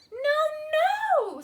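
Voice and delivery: loud, high emphatic no; firm no. Acted. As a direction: turn him down firmly. Bear and wildcat reject goat.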